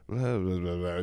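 low, soft mumbled blah blah; mock Trump mumble. Host imitating Trump's Letterman-esque mumble, low and soft. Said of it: "when he's like".

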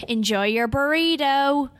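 slow, warm British sign-off; British accent sign-off. Shown as a demonstration. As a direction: say it slowly in your British accent. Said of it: "you have a much nicer accent than I do".

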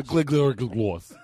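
"Glengarry" slurred as "glig-glary"; "Glengarry Glen Ross" mangled into "glig-glary gwoss"; garbled title. Acted. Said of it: "what's what I say".

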